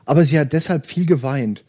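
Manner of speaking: steady audiobook narration with light character voices; story reading. Acted. Host reading Murakami to podcast listeners, calm narration. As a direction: read the novel passage aloud, calm and even. Reads novel aloud to listeners.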